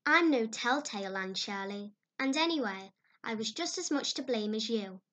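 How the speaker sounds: a hint of a flustered young friend; young girl reporting a scolding; Diana's voice. Diana defending herself.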